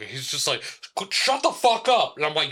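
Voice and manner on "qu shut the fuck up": high, loud mock holler; retold yelling. Man yelling at his dog, loud and cross. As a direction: yell it at a barking dog. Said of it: "yelling at his fucking dog".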